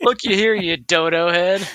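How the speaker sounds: high, loud silly voice; mock old-timer taunt. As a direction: jeer like a cartoon codger. Teasing mock voice.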